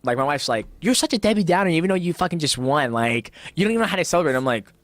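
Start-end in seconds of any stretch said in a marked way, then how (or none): 0.8-4.4 higher, nagging wife impression; lightly voiced exasperated wife; mock wife voice. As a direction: tease him like a nagging wife. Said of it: "She don't sound like that in real life".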